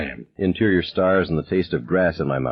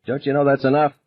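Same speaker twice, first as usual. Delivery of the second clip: pitched-up scolding shout; raised, exasperated call; 7 semitones higher than usual. A narrator's reading. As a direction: stop the bully. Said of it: "he was shouting".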